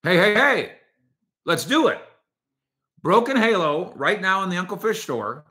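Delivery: loud, high, excited hail; calling out. Real, not acted. Host hailing Broken Halo for a shirt giveaway, calling out.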